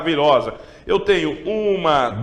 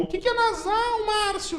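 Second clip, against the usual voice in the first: much higher squeaky student asking Márcio; 6 dB quieter than usual. Acted. Teacher voicing a student asking what nasal is, high squeaky voice. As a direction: play a puzzled kid.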